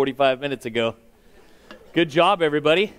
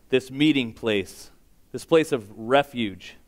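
measured, pausing prayer; phrase by phrase, reverent prayer; public prayer; 2 semitones lower than usual. Real, not acted. Leads a congregational prayer.

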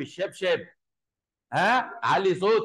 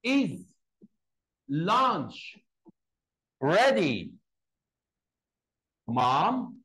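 polite way; much slower than usual. Shown as a demonstration. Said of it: "ممكن أقولها بطريقة ألطف".

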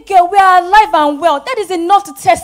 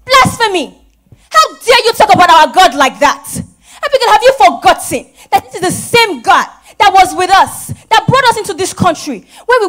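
loud, indignant shout; outraged scolding; 2 semitones higher, 4 dB louder than usual. Acted. Mother shouts at her daughter for blaspheming. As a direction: come down hard on her words.

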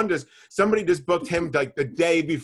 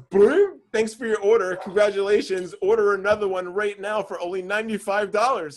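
mock salesy site voice; 3 semitones higher, 4 dB louder than usual. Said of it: "it says".

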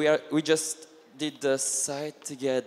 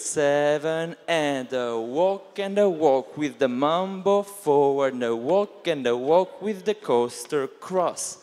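dance count call; 2 semitones lower than usual. Shown as a demonstration. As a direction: count the class through the steps in time. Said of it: "calling counts to music".

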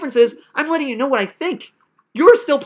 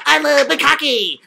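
silly wacky voice; 3 semitones higher, slower than usual. Retold or imitated. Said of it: "like this, which is all silly and wacky".

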